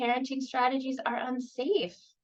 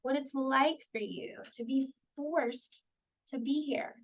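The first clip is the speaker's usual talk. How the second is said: curious; 2 semitones higher than usual. Shown as a demonstration. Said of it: "Some curiosity statements".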